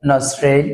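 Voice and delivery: নজরেল said as "nosrel", no t; নজরেল as "nos-rel", silent t; nostril without the t. Shown as a demonstration. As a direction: say নজরেল with the t left out. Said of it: "এখানে টিটা উচ্চারণ হয় না".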